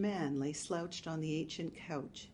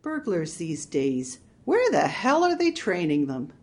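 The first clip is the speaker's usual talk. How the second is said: exasperated; 10 dB louder than usual. Acted. Marge exasperated at burglar.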